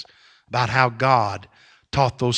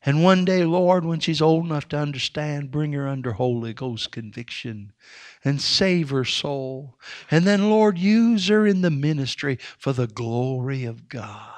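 put-on old preacher's prayer. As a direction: pray over the child gently, barely above a breath. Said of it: "He said something like this".

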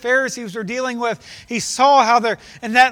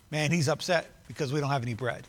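mock puzzled disciple; 7 semitones lower, 7 dB quieter than usual. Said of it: "the only thing they got out of it".

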